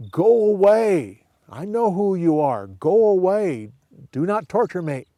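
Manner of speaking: high, loud desperate cry; demon-possessed man. Shown as a demonstration. Possessed man crying out at Jesus, high and loud. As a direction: push them away in terror. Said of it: "you go forward like".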